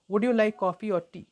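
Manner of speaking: "like" and "coffee" stressed in a slow question; sentence stress demo. Shown as a demonstration. Teacher repeating the question for learners, key words stressed. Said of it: "ई आप ज़्यादा stress नहीं देते".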